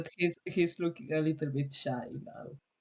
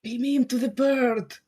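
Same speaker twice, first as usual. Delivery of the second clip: teasing; 8 semitones higher, 7 dB louder than usual. Real, not acted. Teasing suggestion through laughter.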